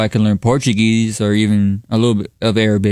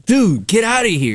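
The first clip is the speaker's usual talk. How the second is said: embarrassed; 10 semitones higher than usual. Real, not acted. Embarrassed brush-off.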